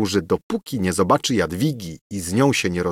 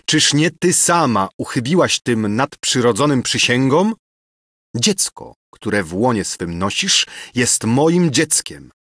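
furious; 3 semitones higher than usual. Acted. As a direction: hurl it at her in fury. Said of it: "wołał Ksawery z wściekłością".

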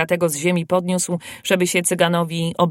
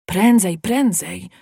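urgent call; slower than usual. A narrator's reading. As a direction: call out to hurry someone on. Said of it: "wołał podziomek". (ponaglające wołanie)

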